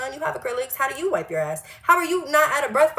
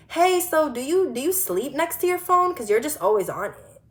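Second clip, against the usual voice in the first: mocking nosy coworker; 4 semitones higher than usual.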